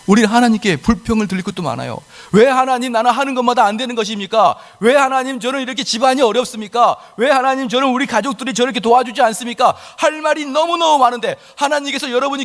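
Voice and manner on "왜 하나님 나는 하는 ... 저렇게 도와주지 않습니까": complaining prayer. Acted. Believer complaining to God.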